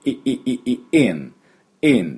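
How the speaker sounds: short "い" sounds from the throat, growing into "in"; back-of-throat sound. Shown as a demonstration. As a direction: repeat "い" in quick bursts, then "in". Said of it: "喉の奥で鳴らしてください".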